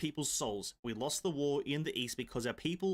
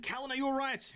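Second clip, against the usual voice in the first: 1 concerned call; 11 semitones higher, faster than usual. Acted. Reading concerned character line aloud.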